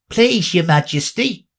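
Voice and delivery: high pleading knave. Acted. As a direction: plead nervously.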